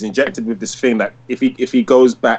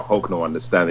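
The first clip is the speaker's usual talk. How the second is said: put-on babyish Hulk; 7 semitones lower, 6 dB quieter than usual. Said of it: "He's like".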